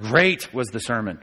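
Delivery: "Great" hit first, the rest dropping away; emphasis on Great. Shown as a demonstration. Teacher showing what's important, stress on "Great". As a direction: put the weight on "Great". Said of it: "what's at the beginning of the sentence".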